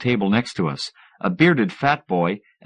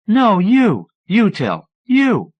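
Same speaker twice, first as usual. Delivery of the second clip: giggly back and forth; 11 semitones higher, 5 dB louder, much slower than usual. Acted. Couple pushing each other to answer.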